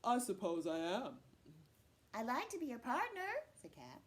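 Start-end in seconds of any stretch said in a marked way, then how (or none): 0.0-1.2 loud, self-important man's voice; puffed-up pride. Acted. Man puffing out his chest at Cat's praise, loud and proud. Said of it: "puffs out his chest and says". 2.1-3.3 high, lightly voiced eager cat; hopeful cat. Cat asking Man to be partners, high and hopeful.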